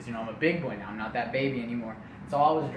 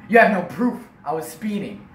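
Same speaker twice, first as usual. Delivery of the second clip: loud, higher-pitched protest; defiant dad; 5 semitones higher, 7 dB louder than usual. Retold or imitated. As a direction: argue back loudly at the officer. Acted dad protesting to police.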